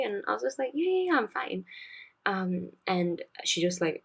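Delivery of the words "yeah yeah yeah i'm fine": high-pitched, airy reassurance; retold brush-off. Student waking in an exam to her teacher's question, imitated brush-off.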